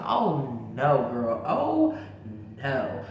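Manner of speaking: mock horror at the vanished snake; retold dread. She realizes the snake vanished, in mock dread. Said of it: "I was like".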